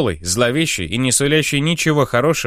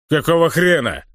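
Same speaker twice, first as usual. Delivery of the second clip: roaring orc; 5 semitones higher than usual. Acted. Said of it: "проревел раздолбай".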